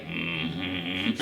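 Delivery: imitating the agreeing advisor. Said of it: "the man advisor was like".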